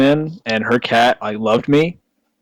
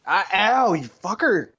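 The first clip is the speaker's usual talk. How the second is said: struggling with a squirming cat; wrestling the cat off the cord; holding down a pet; 8 semitones higher, slower than usual. Real, not acted. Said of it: "I'm trying to wrestle my cat".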